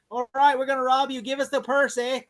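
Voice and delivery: mock Canadian thug, light; a hint of Canadian, "eh"; Canadian accent. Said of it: "they're Canadian".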